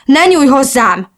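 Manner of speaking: high, loud, drawn-out exclamation; upset cry. A narrator's reading. Hurt friend rejecting a comforting touch, crying out. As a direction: cry out to push her away. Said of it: "kiáltotta".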